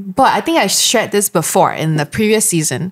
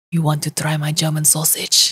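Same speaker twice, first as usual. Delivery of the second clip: mock whisper; 4 semitones lower, 6 dB quieter than usual. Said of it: "and he whispered".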